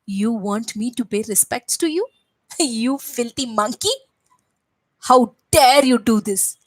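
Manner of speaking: indignant Ravana. Acted. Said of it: "is what Ravana said".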